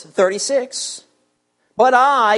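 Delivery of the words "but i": "I" held with firm weight after "But"; emphatic I. A narrator's reading. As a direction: put the strong stress on "I". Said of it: "again it's emphatic here".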